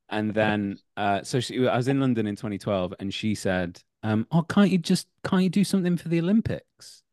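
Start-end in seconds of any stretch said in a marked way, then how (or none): 4.3-7.0 put-on high-pitched Filipino accent, nagging mum. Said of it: "I can just do a general Filipino accent".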